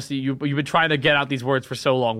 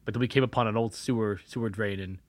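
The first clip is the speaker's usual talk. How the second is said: softer, lower spooky telling; hushed confession; 6 semitones lower, 7 dB quieter than usual. Acted. Cursed boy confessing to Nessie, hushed. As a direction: lean in and whisper your curse.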